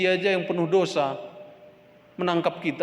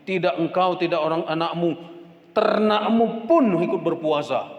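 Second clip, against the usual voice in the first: titah raja; 4 semitones higher, 5 dB louder than usual. Acted. Raja memerintahkan puasa.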